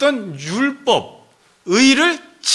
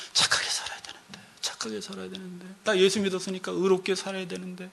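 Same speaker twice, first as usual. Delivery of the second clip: hushed, fretful murmur to oneself; a soft anxious inner voice, barely voiced; anxious whisper; 9 dB quieter than usual. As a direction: worry it under your breath.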